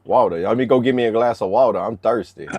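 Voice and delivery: country accent, wau-duh for water; thick country accent. Shown as a demonstration. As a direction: show off the Southern accent on a request for a drink. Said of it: "I don't even say water right".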